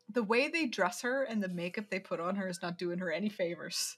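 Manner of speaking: whispered and unvoiced, a catty aside. Real, not acted. Whispering to her co-host about the actress's makeup. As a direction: drop to a whisper to share a snarky comment.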